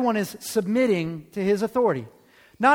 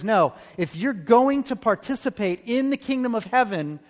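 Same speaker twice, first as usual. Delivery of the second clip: commanding authority; 3 semitones higher than usual. Retold or imitated. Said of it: "he teaches with authority, and he says".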